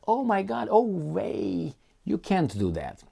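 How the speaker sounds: high-pitched mock gasp of outrage; mock shock. Mocking Western outrage at Russia, high mock shock. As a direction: ham up the scandalised chorus. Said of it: "everybody's like".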